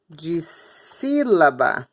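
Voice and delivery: "dissílaba" very slow, broken after "dis"; syllable by syllable. Shown as a demonstration. Teacher writing it out for pupils, "dissílaba" slowly split. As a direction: stretch "dissílaba", pausing before a loud "SÍ".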